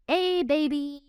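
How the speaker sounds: amazed, stretched-out exclamation; gushing exclamation. Real, not acted. Exclaims over how young actor looks.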